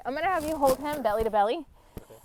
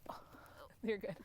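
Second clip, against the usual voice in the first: whispering; 5 semitones lower, 15 dB quieter than usual. Real, not acted. Quiet aside during tender pose.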